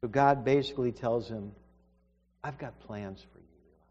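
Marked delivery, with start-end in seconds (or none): 2.4-3.9 God tender promise. Acted. God speaks tenderly to Elijah.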